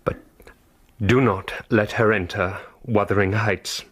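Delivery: faint dying whisper. Acted. Dying master's faint last wishes.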